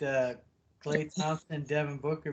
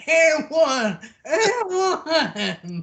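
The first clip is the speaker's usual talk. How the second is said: high, loud scream at the ref; hammed-up player's protest yell; imitated screaming; 11 semitones higher, 10 dB louder, much slower than usual. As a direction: bellow it like a player demanding a foul. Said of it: "starts screaming at the ref".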